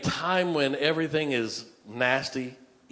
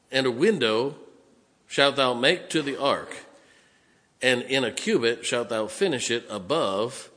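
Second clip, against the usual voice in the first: emphatic Bible reading, phrase by phrase; scripture reading. Acted. Preacher reads ark instructions to the congregation, emphatic scripture reading. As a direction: read the verse out firmly to a congregation.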